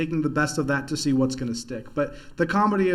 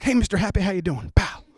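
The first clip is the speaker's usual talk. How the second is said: louder, excited cowboy twang; cowboy accent; 3 semitones higher, 5 dB louder than usual. Retold or imitated. Bush-fan neighbor greeting the dad, cowboy twang. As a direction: greet him like an eager cowboy. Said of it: "He'd be like".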